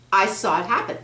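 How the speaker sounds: put-on a worried kid asking for help; young boy Peter. Boy asks the snake about the scroll, eager.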